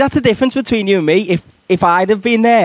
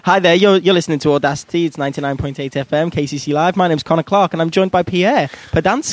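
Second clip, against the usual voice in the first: lightly played radio presenter patter; radio link; 2 semitones lower than usual. Host introducing the made-up French guest, radio link. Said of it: "let's do the next bit of this, uh, this link".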